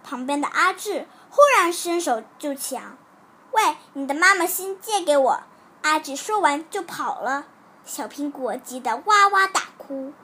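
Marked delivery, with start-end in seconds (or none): 3.5-5.4 demanding. Acted. Boy snatching a classmate's heart.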